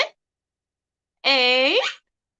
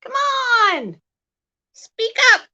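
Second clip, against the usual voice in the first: high coaxing pet voice; 9 semitones higher, slower than usual. Real, not acted. Coaxing parrot to talk.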